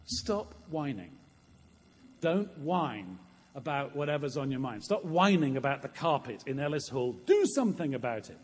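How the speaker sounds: mildly stern divine scolding; firm, emphatic command to stop complaining; God. Acted. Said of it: "And God says, in effect".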